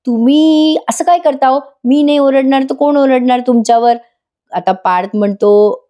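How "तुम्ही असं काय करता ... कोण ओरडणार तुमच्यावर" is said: higher, mock-indignant complaint; playful protest. Kavya claims her right to scold Parth, playful protest. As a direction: plead your right to scold, half in play.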